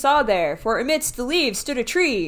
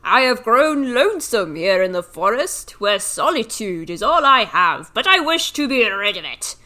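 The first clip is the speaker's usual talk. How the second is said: tree voice; 5 dB louder than usual. Acted. Tree speaks, reader voicing it.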